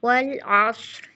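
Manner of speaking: वल with waw from rounded lips, lam kept medium. Shown as a demonstration. Teacher demonstrating tajweed of वल, lips rounded. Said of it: "ध्यान रहे वाव की अदायगी proper होंठों की गोलाई से".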